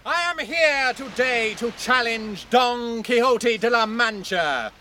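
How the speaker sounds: ringing formal proclamation; knight's loud challenge. Acted. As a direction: proclaim the accusation for the whole crowd. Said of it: "gives voice to his challenge".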